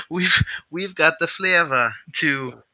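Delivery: high, giggling jingle imitation, stretched out; sing-song the ad rhyme through laughter; quoting the jingle. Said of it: "The rhyme for".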